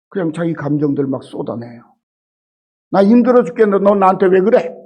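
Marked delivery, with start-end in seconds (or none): 2.9-4.7 a touch of exasperated whining; mild mock quarrel; mock complaint. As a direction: vent like a worn-out pastor. Pastor venting at quarreling members.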